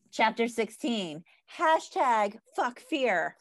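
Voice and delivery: slow, deliberate title announcement; measured book-reading delivery; chapter title read-out. Acted. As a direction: announce the chapter heading slowly. Reads the chapter title aloud.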